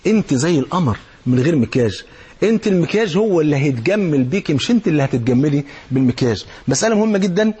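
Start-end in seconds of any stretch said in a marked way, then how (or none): 0.1-6.4 tenderly admiring wife; tender compliment. Retold or imitated. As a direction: reassure her gently. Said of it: "قول لها".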